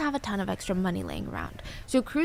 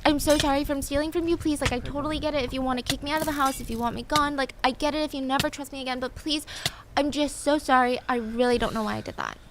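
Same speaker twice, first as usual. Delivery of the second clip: higher, pleading mock-tearful voice; hammed-up, higher-pitched sorry-sorry plea; imitating tearful apology; 5 semitones higher than usual. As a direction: act out a kid breaking down, begging forgiveness. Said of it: "Janice was breaking down".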